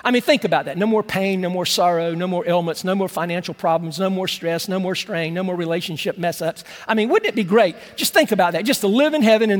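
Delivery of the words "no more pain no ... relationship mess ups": lower, softer, dreamy listing; tender list. Acted. Preacher dreaming aloud of heaven to the congregation, lower and softer. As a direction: savor each one gently.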